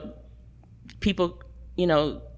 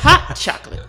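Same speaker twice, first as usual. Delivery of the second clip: laughing; 11 semitones higher, 7 dB louder than usual. Acted. Repeats joke, laughing.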